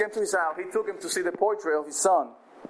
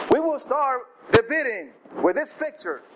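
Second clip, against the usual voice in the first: auctioneer calling; 7 semitones higher than usual. Acted. Auctioneer opens the bidding.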